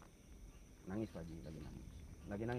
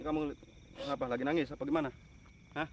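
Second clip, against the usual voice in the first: raised, insistent question; loud questioning; 5 semitones higher, 6 dB louder than usual. Real, not acted. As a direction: press the hidden spirit for an answer. Questioning a spirit at a tree. (bertanya keras dan mendesak)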